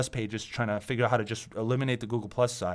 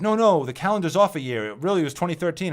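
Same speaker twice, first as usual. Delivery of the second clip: higher, louder mock insistence; mocking doomsayers; 7 semitones higher, 7 dB louder than usual. Mocking doomsayers who reset the calendar, higher and louder. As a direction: lampoon the doomsayers moving the date. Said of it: "they're like".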